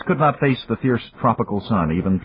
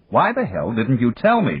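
snapped; 5 semitones higher than usual. Acted. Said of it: "Dan snapped".

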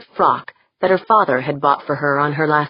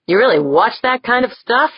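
high-pitched, lightly scoffing question; 8 semitones higher, 3 dB louder than usual. A narrator's reading. Jaeger to Dorn about the indoctrination video, lightly scoffing. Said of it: "Jaeger scoffed".

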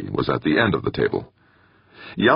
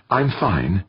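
beaming happily; 8 semitones higher than usual. A narrator's reading. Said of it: "beaming happily".

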